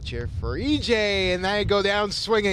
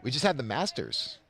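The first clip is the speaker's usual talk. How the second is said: golf voice; 4 semitones lower, 6 dB quieter than usual. Pretend. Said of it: "gotta use our golf voice".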